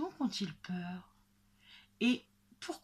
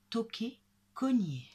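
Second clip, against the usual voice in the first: ordinary delivery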